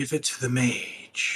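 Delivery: airy, wispy voice. In a tabletop game, a sensed voice urges the players, wispy voice. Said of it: "That sort of red, wispy voice says".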